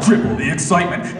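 trailer tagline announcer; mock-epic film narration; movie trailer voice. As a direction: build it like an action promo. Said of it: "that movie voice".

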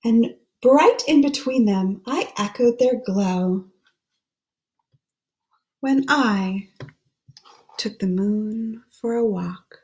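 put-on hushed, lilting read-aloud for children; gentle storybook voice; story reading. Reads the rhyming book aloud.

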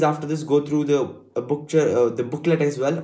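false starts and fillers; halting, self-correcting delivery; stumbling over words. Real, not acted. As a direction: trip on "booklet", then restart. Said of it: "I'm stuttering so much today".

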